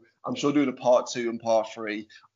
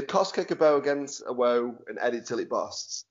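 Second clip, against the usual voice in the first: Stoke accent. Shown as a demonstration. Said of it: "Can you, can you say the, the Stokey phrase?".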